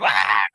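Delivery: comic cry of alarm through a laugh; mock panicked yell. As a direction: yelp as if fleeing in a cartoon. Imitating Deku running away yelling.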